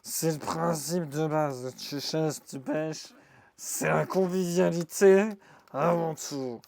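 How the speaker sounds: put-on slow drunk guy, southwestern accent; mec bourré. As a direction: play a tipsy drinker toasting friendliness. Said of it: "quand je fais le mec bourré". (voix de mec bourré, lente, accent du sud-ouest)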